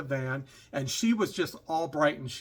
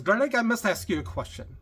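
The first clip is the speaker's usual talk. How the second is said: bad accent impression, pitched up; Doctor Ruth; 6 semitones higher, 3 dB louder than usual. Passenger pipes up to ask Greg, mock accent. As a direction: imitate her accent, higher voice. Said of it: "I'm doing a horrible accent here".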